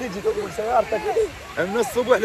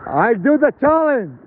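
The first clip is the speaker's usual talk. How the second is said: proud shout; 2 semitones higher, 6 dB louder, much slower than usual. Real, not acted.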